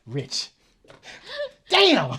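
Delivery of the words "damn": loud, high comic yell; mock frustrated outburst. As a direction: burst out in pretend dismay. Repeats the pretend morning disappointment.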